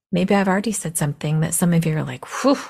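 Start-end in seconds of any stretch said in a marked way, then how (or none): 2.4-2.6 short breathy whew; mock shocked whew. Imagined listener reacts to host's remark, mock shocked whew. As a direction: let out a quick puff of disbelief.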